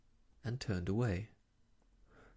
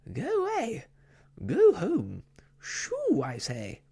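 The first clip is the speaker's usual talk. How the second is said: very high, loud, indignant cries at the dog; angry shooing; 12 semitones higher, 8 dB louder than usual. Acted. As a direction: drive the dog off, furious and shrill. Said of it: "waving her arms angrily".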